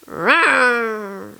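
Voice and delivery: feeble little engine growl; weak engine rawr. Retold or imitated. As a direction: make a tiny, weak engine noise. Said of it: "the weakest little".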